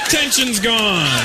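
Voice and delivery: triumphant drawn-out Indian accent. Shown as a demonstration. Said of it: "pop in the Indian accent".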